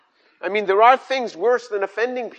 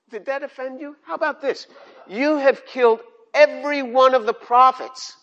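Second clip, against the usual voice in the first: rising higher into a pointed rebuke; Jesus rebuking; 5 semitones higher, 3 dB louder than usual. Retold or imitated. Jesus answers the offended lawyer with a higher, pointed rebuke. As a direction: push back hard on the lawyer, ending loud. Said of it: "And Jesus is like".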